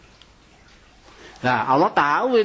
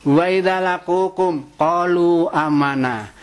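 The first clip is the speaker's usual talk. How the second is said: Quran recitation; slower than usual. Acted. Quran verse quoted in sermon.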